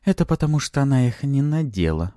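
playful succubus poking fun; amused teasing. A narrator's reading. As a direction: tease with a touch of laughter in the tone. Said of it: "посмеялась в голове Пафи".

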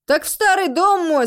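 high, loud and keen; ready, eager explanation. A narrator's reading. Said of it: "с готовностью объяснил мужчина".

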